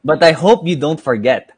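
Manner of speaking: projected birthday verse; measured greeting-card poem reading; poem recital. Acted. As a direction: recite the tribute line by line. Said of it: "We wrote you a poem".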